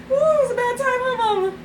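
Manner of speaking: cat's little voice. Retold or imitated. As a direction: speak as the cat telling Mama. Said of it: "She was like".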